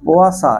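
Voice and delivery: কুয়াশা said slowly as poa-sa, like Poisson; teacher slowly spells out কুয়াশা as poasa. Shown as a demonstration. Teacher showing students how to say Poisson, slow careful demo. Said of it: "এরকম ঠিক উচ্চারণ".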